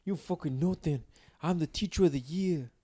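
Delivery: attempted Irish accent, hammed up lightly; Conor McGregor. Joking coworker boasting as teacher of the year, amateur Irish accent. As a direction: try a rough imitation of an Irish brogue. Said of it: "straight Conor McGregor".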